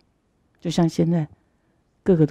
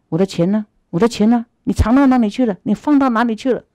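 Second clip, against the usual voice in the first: rising, louder demanding questions; angry accusation; 3 semitones higher, 4 dB louder, faster than usual. Acted. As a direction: demand your money back from a stranger. Man accuses third man of theft.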